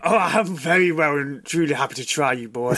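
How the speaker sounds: lightly Texan menace; a touch of Texan accent. Acted. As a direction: answer the dare with a Texan twang. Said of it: "with a Texan accent".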